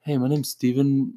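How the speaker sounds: slow, lightly put-on oddball clerk; a hint of a Napoleon Dynamite relative; made-up clerk voice. Co-host playing imagined liquor store clerk, slow oddball voice. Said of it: "I guess that's how he talks".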